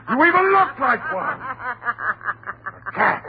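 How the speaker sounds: jeering, laughing through the words; mocking laugh. Husband taunting his wife, laughing mockingly. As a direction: laugh cruelly at her as you say it.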